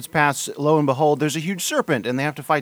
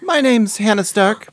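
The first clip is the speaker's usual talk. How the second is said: high, slow put-on girly voice; girl voice; 8 semitones higher, 7 dB louder, slower than usual. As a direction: pitch up into a girl voice. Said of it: "That's the only girl voice I got".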